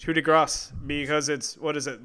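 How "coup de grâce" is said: "grace" said "grahss"; final consonant pronounced. Shown as a demonstration. Co-host confirms the French correction, "grace" with sounded s. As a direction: finish "grace" with an audible s. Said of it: "The consonants get pronounced".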